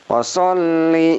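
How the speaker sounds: "washolli" with the double l held, slow and high. Shown as a demonstration. Teacher models the held ll in "washolli". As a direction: hold the ll of "washolli". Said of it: "ditahan bacanya".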